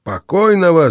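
alarmed outcry; shout. A narrator's reading. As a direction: shout «Покойного!» in shock. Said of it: "закричал Павел".

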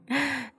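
quick, soft, high chuckle; gloating chuckle. Acted. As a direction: laugh softly at the victim. Vi gloats over eviction.

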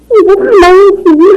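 sharp rebuke. Acted. Wife scolds husband.

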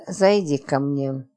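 slow, low, heavy calm. Acted. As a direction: say it with weighty composure, slowly. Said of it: "с тяжёлым спокойствием добавила". (тяжело и спокойно, медленно)

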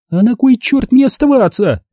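high angry snap; angry retort. Acted. Lauren snaps at mother by the door, high. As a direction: throw it back.

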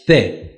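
سه with a lisped Arabic th; Arabic th sound. Shown as a demonstration. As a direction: say سه with th, as Arabs pronounce three-dot se. (تلفظ عربیِ ث در «سه»)

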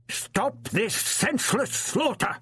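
put-on high, slow, ringing old man's cry; bellowed. A narrator's reading. The captive doctor crying out to the Daleks, bellowing high and slow. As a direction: call out to stop the killing. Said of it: "he bellowed".

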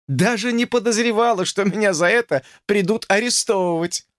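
mock scandalized; teasing young woman. A narrator's reading. Lucy teasing George with mock indignation.

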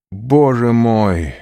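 loud anguished cry to God, drawn out; loud desperate plea; despairing cry. A narrator's reading. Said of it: "вскричал он".

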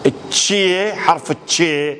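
التشي said with "ch" as in chair; Iraqi "ch" sound. Shown as a demonstration. Lecturer naming the southern Iraqi letter, clear "ch" sound. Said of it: "لهجة جنوبية عراقية".

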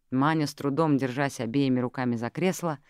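usual speaking voice

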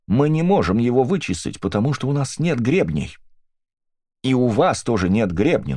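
high, grief-stricken accuser, near tears; grieving accusing widow. Acted. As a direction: press the accusation, rising to a wail. Mrs Brixter continues accusing.

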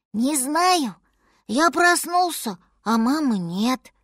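put-on small high child voice, slow and forlorn; lost baby mammoth.

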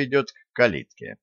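ordinary delivery

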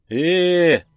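high loud dismissive drawn eh. Acted. Bogdan brushing off Genka's fear, dismissive. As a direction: wave it off with a long eh. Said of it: "отмахнулся Богдан".

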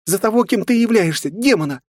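very high, loud panicked scream; terrified shriek. A narrator's reading. Frightened girl screaming the demon away.

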